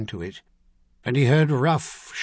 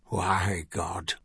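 bitter; 5 semitones lower, 5 dB quieter than usual. Acted. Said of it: "a voice demanded bitterly".

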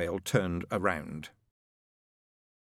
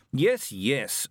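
mildly impatient interruption; a shade testy; 3 semitones higher than usual. Acted. Metatron cuts off the angel's excuses, a shade testily. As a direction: cut in with a touch of irritation. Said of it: "a shade testily".

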